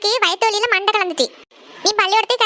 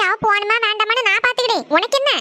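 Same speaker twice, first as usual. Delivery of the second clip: sharp retort. Acted. Mother snaps back again.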